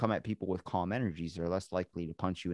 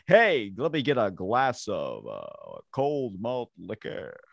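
mock order; 5 dB louder, slower than usual. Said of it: "I'll be at the restaurant like".

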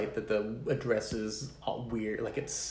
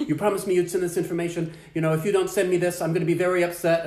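mild mock rage; 6 semitones higher, 5 dB louder than usual. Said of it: "she's just raging".

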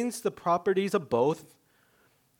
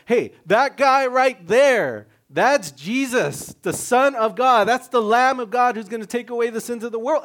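John the Baptist calling out; 6 semitones higher, 8 dB louder than usual. Retold or imitated. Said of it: "John the Baptist had to go and be like".

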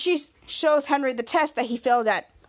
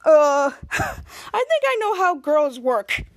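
slow, laughing know-it-all line; cocky laugh; 2 semitones higher, 4 dB louder, slower than usual. Retold or imitated. Henry bragging to Sean, slow laughing swagger. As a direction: chuckle then boast slowly. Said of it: "And Henry's like".

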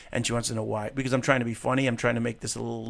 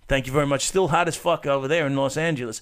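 hammed-up Russian guy accent, held for the bit. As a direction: keep the joking Russian voice going. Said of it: "that is a good accent".

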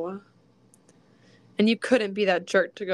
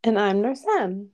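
muffled, echoing as in a tunnel; 4 dB louder than usual. Real, not acted. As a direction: hand cupped around the mic. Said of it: "now you sound like you're in a tunnel".

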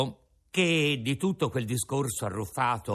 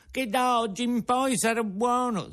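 sobbing promise; 11 semitones higher, 3 dB louder than usual. Acted. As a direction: plead through sobs.

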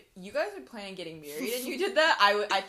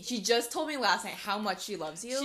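calming counselor. Pretend. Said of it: "I would be his counselor".

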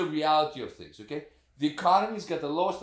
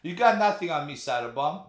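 Scarface quote; 3 semitones higher, 7 dB louder than usual. Retold or imitated. Quoting Scarface to his friend, a loud gangster taunt. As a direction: sneer it like a smug mobster. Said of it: "Was it Scarface?".

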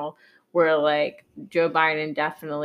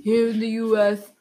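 Trump impression. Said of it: "Donald Trump".

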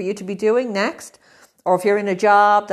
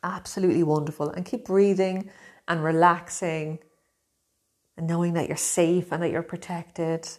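guided meditation. Acted. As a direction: guide them gently, unhurried.

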